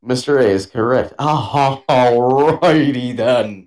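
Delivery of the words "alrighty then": slow, stretched out alrighty; Ace Ventura drawl. Retold or imitated. Quoting a movie catchphrase to friends, stretched out slowly.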